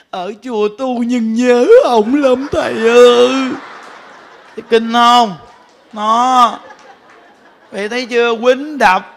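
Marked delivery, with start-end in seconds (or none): 0.1-3.3 slow, louder mock old woman's lament. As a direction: drag it out like a lovesick old wife. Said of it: "Bà nói". (giả giọng bà cụ than nhớ chồng, chậm và to)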